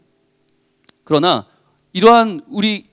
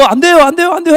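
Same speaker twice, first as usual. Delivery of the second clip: higher, louder firm warning; police warning shout; 6 semitones higher, 3 dB louder than usual. Acted. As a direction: stop them at the tape. Police holding back crowd.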